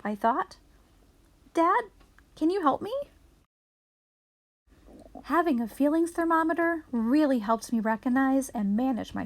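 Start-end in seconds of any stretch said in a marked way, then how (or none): 1.5-2.9 put-on a child calling for his dad. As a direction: call across the house for help.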